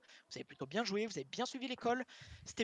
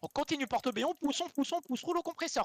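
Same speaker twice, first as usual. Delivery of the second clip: excited calling out; 5 semitones higher than usual. Real, not acted. Shot-calling a push in game.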